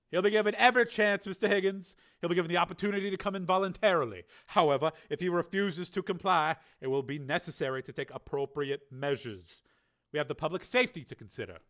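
high, loud, commanding senator; Carmen, senator's voice. Acted. Senator announcing the engineer's name to the committee, commanding. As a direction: announce it with cold authority.

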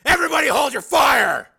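high, loud order; commanding shout. A narrator's reading. Steel ordering all to stop shooting, loud. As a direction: bark it to everyone.

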